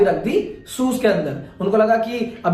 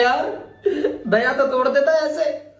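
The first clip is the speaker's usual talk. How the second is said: slow, higher, laughing through the words; sheepish laughing excuse; 5 semitones higher, slower than usual. Retold or imitated. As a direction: giggle it out sheepishly. Friend excuses himself, laughing. (हँसते हुए झेंपा बहाना)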